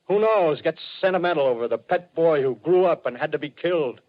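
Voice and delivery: rising high with wild excitement; carried away by the idea; excited. Acted. Artilleryman imagines Martian pets.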